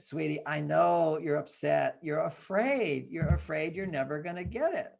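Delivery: put-on gently name the child's fear, unhurried; soothing parent. Father validates his upset daughter, soothing.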